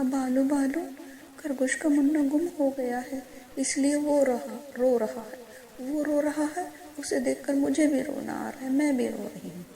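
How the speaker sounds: high, loud bird voice; upset little bird. A narrator's reading. Bird telling the bear why they cry, high and loud.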